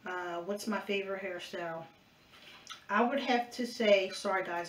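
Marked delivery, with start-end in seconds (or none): 2.9-4.7 talking while chewing gum; words round a wad of gum. Real, not acted. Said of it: "I'm chewing gum".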